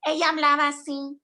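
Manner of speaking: lightly voiced little Ursula voice in Spanish. Shown as a demonstration. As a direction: give a hint of a tiny character voice. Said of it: "she had this little voice up here".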